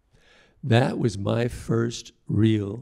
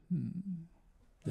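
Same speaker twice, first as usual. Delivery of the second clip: dismissive hum; 9 semitones higher, 12 dB quieter than usual. Retold or imitated. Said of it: "looked at it, went".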